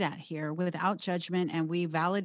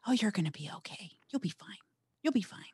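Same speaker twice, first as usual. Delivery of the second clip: mock reassurance; faster than usual. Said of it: "insulting my intelligence".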